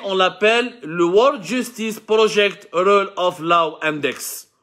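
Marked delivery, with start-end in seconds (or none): 1.0-4.5 slow English title in a French-Algerian accent; heavily French-accented English, carefully spaced; catastrophic English accent. Real, not acted. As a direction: labour through the English with a Francophone accent. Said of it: "en anglais catastrophique".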